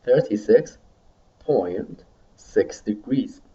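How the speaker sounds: slow, with a pause after "Thirty-six"; slow repeat model. Shown as a demonstration. Teacher has students repeat a temperature, slowly, in separated chunks. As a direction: stretch out "point six degrees" for learners to copy.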